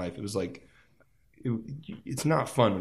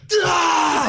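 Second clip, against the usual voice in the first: high, loud, exasperated outburst; frustrated mock cry; 9 dB louder than usual. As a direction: blurt it out in pure frustration. Frustrated reaction retold.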